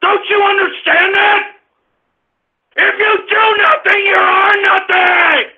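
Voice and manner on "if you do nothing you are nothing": high yell, slowing on the second half; furious shout. Real, not acted. Host demands that listeners understand, shouting furiously. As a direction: bellow it out, stretching the final words. Last take, after "Don't you understand.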